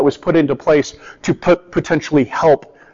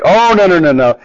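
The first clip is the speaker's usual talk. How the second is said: mock-alarmed entourage turning people away; disciples shooing; 3 semitones higher than usual. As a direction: wave the parents off like fussy bodyguards.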